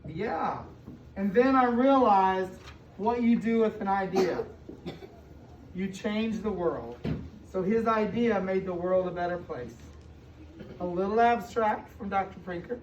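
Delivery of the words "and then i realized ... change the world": slow, weighty read-aloud of the final line; slow down and land the moral; slow storybook ending. A narrator's reading. Teacher reading the book's final line to her class, slow and weighty. Reads picture book to kids.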